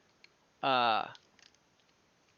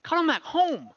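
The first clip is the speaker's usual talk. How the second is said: higher broken-speech kobold correcting the party; a lightly voiced little kobold insisting, in halting words; kobold guide; 12 semitones higher, 4 dB louder than usual.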